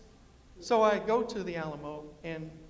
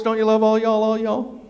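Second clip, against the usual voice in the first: loving tone; 8 dB louder than usual. Real, not acted. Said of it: "I fell in love with that word".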